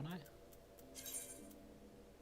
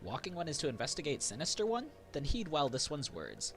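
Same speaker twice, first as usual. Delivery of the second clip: Sylph voice; 5 semitones higher than usual. Acted. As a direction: chirp it like a small sprite.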